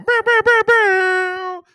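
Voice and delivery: loud, high mimicked air horn. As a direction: blare a stuttered air-horn burst. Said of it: "let me D J it up now".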